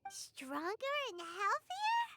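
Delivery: slow, rising disbelief on "healthier"; drawn-out rising "healthier?" in amazement; surprised echo. Real, not acted. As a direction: stretch "healthier" upward, can't believe it. Paimon echoes incredulously.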